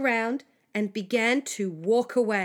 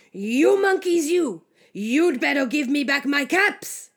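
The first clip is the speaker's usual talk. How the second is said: loud storybook telling-off; quite angry; 2 semitones higher, 8 dB louder than usual. A narrator's reading. Peddler stamping his foot at monkeys, quite angry. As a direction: scold with a raised, forceful voice. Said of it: "Now he felt quite angry".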